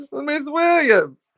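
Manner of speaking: slow, high sing-song name call; drawn-out greeting. Real, not acted. Greeting a viewer in the live chat with a sing-song drawl. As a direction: stretch the name out like a fond tease.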